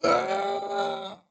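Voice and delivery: very high, squeaky mock wail of a child. Cohost teasing the speaker as a sobbing kid, in a squeaky wail. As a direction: squeal it like a small child crying out.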